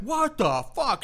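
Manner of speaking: high and slow; stunned disbelief. Retold or imitated. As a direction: drag out baffled disbelief. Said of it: "And I'm like".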